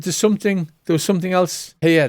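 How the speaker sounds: a nervous fortune-teller who can't get her words out; flustered seer. Acted. Seer insisting to the party she had no idea what happened, flustered.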